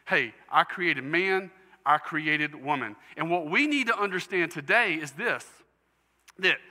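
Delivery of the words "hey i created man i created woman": slow, proclaiming God's words; a hint of God's voice; voicing God. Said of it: "he establishes".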